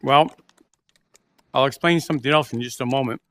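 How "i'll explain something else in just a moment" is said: talking while chewing; words round a mouthful of candy; mouth full. Real, not acted. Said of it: "I normally don't like talking with my mouth full".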